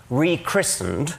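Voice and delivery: "Rechristened" drawn out slowly, set apart by pauses; slow emphasis. Real, not acted. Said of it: "I choose the word advisedly".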